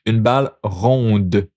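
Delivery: une balle ronde with the d of ronde heard; final d sounded. Shown as a demonstration. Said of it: "now you'll pronounce that last part".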